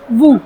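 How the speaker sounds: वू as a clean voo with nothing after; वू, stop there; ending voo. Shown as a demonstration. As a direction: end on वू. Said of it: "वू करके बस खत्म".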